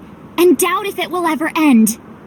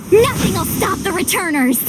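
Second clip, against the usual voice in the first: rallying shout; 5 semitones higher than usual. Acted. Rallying speech to troops.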